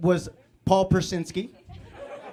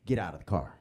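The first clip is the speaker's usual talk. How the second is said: very low, quieter imitated order; stern cop; 10 semitones lower, 5 dB quieter, faster than usual. Cop repeating his order to a passenger, low and stern. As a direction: drop from the shout to a low command.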